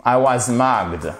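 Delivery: I was mugged, said slowly with a short u in "mugged"; slow model word. Shown as a demonstration. Teacher models the phrase for French learners, slowly. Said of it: "prononciation pour la lettre U".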